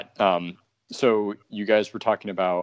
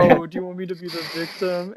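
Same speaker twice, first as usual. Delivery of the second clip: mock girly victim voice; 10 semitones higher than usual.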